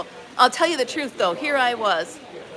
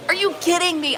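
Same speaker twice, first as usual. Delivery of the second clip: 1 disbelief; 6 semitones higher than usual. Real, not acted. Outraged at the thief's accusation.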